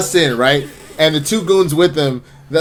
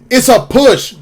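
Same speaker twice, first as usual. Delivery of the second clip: exasperated correction; 8 semitones higher, 5 dB louder, slower than usual. Acted. Henchman corrects Freeze at the door.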